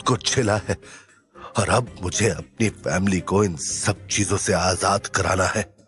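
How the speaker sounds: low, grim hero's voice; restrained anger. Acted. Hero vowing to free his family, restrained anger. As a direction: keep the anger low and controlled. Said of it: "गुस्से से राजवीर ने मुट्ठी बांध ली".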